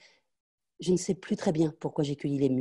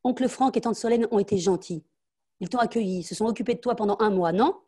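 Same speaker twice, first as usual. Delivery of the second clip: lecturing mother; 5 semitones higher, 4 dB louder than usual. Acted.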